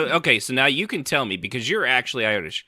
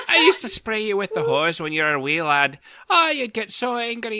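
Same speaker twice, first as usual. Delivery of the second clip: Irish neighbour's voice; 8 semitones higher than usual. Retold or imitated. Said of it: "He's like".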